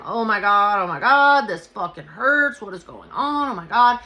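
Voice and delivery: pained wailing, short of a scream; restrained retold screaming. Injured passenger on the way to hospital, mock pained cries. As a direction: cry out in pain without going full scream. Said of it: "I'm, like, screaming. I'm not screaming, like, bloody murder".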